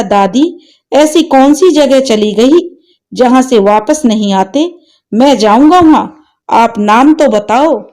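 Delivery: put-on a boy ready to go fetch his mother; determined child. Grandson asks grandmother where mother went, eager boy voice.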